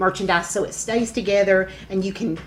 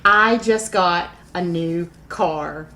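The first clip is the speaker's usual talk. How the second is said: excited; 2 semitones lower, much slower than usual. Real, not acted. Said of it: "I'm so excited".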